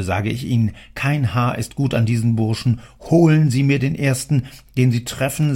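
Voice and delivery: enraged father scolding his three sons; angry father. Acted. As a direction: rant at them, loud and bitter. Father rages about his sons.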